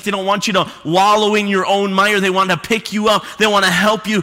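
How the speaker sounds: rising fervent sermon build; building preaching. Real, not acted. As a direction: preach it up to a near shout by the end.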